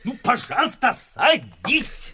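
pleading upward, very high; high coaxing plea. Acted. Soldier urging the landlord to sit down, high and pleading. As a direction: coax him into the chair in a high plea.

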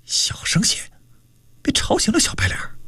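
soft, conspiratorial stage whisper; hushed warning. Acted. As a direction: keep it down so the sleeper won't wake. (压低声音悄声提醒)

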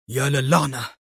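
ordinary delivery

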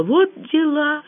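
high, slow note of amazement; exhaled exclamation. A narrator's reading. Rita downs the cognac, amazed exhaled exclamation. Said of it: "опрокинула ёмкость и выдохнула".

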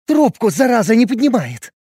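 high, loud exasperated snap; angry. Acted. A jealous girlfriend rants that he won't answer, angrily. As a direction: fume that he ignores the call. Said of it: "Разозлилась Юля".

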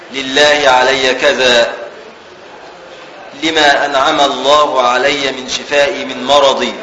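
measured classical Arabic book reading; formal text reading. Real, not acted. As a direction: read the commentary out carefully, fully voweled. Reads the commentary text aloud. (قراءة متن بالفصحى بتأنٍّ)

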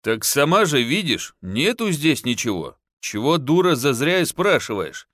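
usual speaking voice

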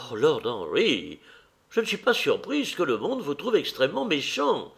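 high, swooping society lady; mock-reproachful old lady; scolding old hostess.

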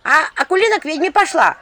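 high, loud village gossip calling out; loud high gossiping woman. Acted. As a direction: broadcast the rumour down the street. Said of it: "громкий женский голос на улице".

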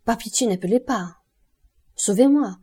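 cri suppliant. A narrator's reading. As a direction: beg desperately not to be given away. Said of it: "cria-t-il, pâle, égaré". (supplication affolée, de plus en plus forte)

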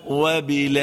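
وبالآخرة with four-beat vowel; recited with medium madd. Shown as a demonstration. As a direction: hold the vowel medium length. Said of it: "التوسط هكذا".

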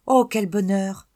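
a loud, high cry of joy; overjoyed. Acted. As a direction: burst out with delight. Child overjoyed at praise. (fillette folle de joie, qui s'écrie)

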